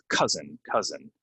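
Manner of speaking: cousin said KUH-zin, vowel as in up. Shown as a demonstration. Teacher modelling cousin with the uh vowel. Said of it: "it's a uh, like in the word up".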